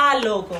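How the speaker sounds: আলোক with its opening আ held long; টেনে বলা. Shown as a demonstration. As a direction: lengthen the stressed আ in আলোক. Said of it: "সেই তনসের ক্ষেত্রে আমরা কিন্তু এটা বললাম". (আলোক-এর প্রথম আ টেনে বলা)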